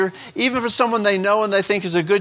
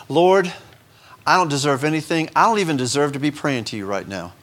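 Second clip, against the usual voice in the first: humble prayer; 2 semitones lower than usual. Pretend. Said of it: "What should be our proper attitude".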